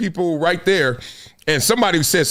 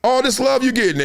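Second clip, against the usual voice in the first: 1 mock roommate; 7 semitones higher than usual. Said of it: "him saying".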